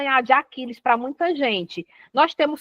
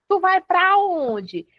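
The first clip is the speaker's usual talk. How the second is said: put-on higher, slow call after a walking boy; slow, higher call of "tu vai pra onde"; calling out to a kid; 6 semitones higher, slower than usual. Shown as a demonstration. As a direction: call after him as he walks off. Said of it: "quando alguém me escutar falando assim".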